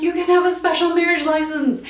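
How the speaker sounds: high, loud, overexcited mother; hammed-up thrilled squeal of words; Missus Bennet, so excited. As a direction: gush it loudly in a high put-on voice. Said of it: "like, so excited when she finds out".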